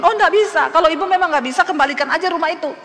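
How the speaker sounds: high, loud, hard refusal; angry refusal. Retold or imitated. Landlord refusing half payment, loud and angry. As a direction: slam the door on any deal. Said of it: "Pak Hajinya marah-marah".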